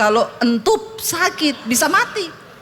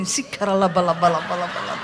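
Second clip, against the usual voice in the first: rapid babbled nonsense syllables, dropping low; low, rattling mock tongues; mock speaking in tongues; 7 semitones lower than usual. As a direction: parody a quick burst of tongues. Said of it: "pasti kalau berantem bahasa roh ini".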